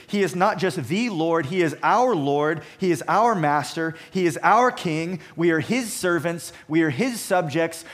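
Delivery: loud, driving stress on "our" and "his"; emphatic stress. Real, not acted. Preacher telling the congregation Jesus is their Lord, emphatic stress. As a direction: punch "our" and "his" in each short clause. Preacher drives home personal submission to Christ.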